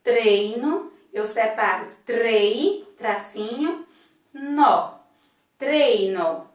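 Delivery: treino broken into trei, tracinho, nó, then treino whole; syllable split. Shown as a demonstration. Teacher splitting treino into syllables for pupils. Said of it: "quando eu separo a palavrinha".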